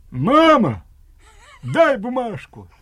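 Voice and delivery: very loud, high commanding shout. Retelling how an older brother shouted to their mother, retelling a commanding shout. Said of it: "закричал командирским голосом".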